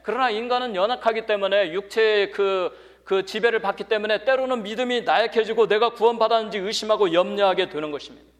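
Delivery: forceful preaching. Real, not acted. Preacher tells the church why faith weakens, forceful preaching. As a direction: press the point home to the congregation.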